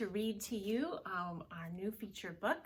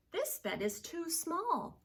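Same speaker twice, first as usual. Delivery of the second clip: somebody; 10 semitones higher than usual. Acted. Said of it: "said somebody".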